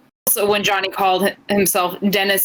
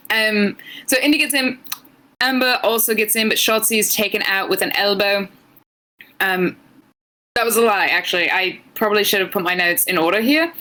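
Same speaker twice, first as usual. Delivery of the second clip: British accent. Shown as a demonstration. Co-host recapping a match on a dare, British accent. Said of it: "give us your English accent".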